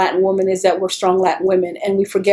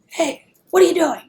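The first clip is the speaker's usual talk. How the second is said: high, sharp call across the yard; retold yell; 8 semitones higher than usual. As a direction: call out to stop an intruder. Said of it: "and I yell".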